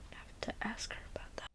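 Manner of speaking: a private whisper to herself, trailing off; muttered aside. Real, not acted. Werewolf guide whispering an aside to herself about her vampire friend.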